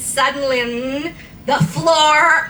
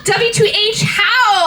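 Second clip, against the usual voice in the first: mock scream; 8 semitones higher than usual. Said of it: "I screamed".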